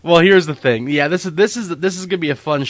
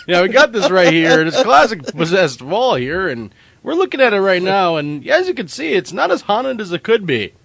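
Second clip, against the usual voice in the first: TV host voice; 5 semitones higher than usual. Pretend. Mock TV home show host.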